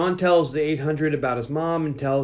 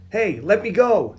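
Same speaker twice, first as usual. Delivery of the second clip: higher, drawn-out mock protest; mildly hammed-up demand to be released; retold protest; 6 semitones higher, slower than usual. Boy protesting as the Terminator grabs him, mock protest. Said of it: "he starts yelling".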